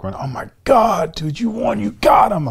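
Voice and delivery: high, whispered rush of excitement; excited backstage hype. Retold or imitated. Teammates backstage whispering he won, excited. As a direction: hype him up breathlessly. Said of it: "Everybody's like".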